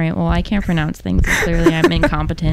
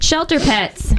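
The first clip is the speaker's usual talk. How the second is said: PSA announcer; 7 semitones higher, slower than usual. Shown as a demonstration. Opening a PSA read on air.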